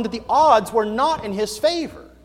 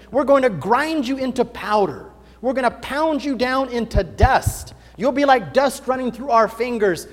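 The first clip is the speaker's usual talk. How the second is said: higher-pitched, mock-threatening paraphrase; punchy mock threat, dropping off at the end; fighting words; 4 semitones higher than usual. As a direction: deliver a preacher's retold threat, pitched up. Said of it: "takes that as fighting words".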